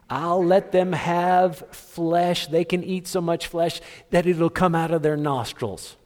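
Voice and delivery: God speaking with mock sternness; stern declaration. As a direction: lay it down with slow weight. God's angry answer, preacher acting.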